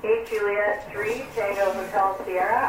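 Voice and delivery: usual speaking voice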